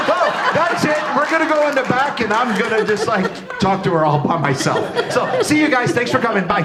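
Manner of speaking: high-pitched, rushed pretend goodbye; mock hasty farewell. Host pretends to end the panel and take the guest backstage, mock farewell. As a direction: wrap it up quickly as a joke, half laughing. Jokingly ends panel, walks off.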